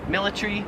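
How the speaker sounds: "military" as MIL-i-tree; Australian pronunciation. Shown as a demonstration. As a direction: squeeze the end of "military" to tree. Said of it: "would say it in Australia".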